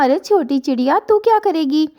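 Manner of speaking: high, scornful taunt; mocking eagle. Eagle mocks the small sparrow, scornful high taunt. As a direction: sneer down at the little bird.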